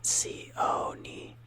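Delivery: sioni split slowly, see-OH-nee; wrong sioni. Shown as a demonstration. Teacher showing the wrong way to end arancione. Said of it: "not sioni".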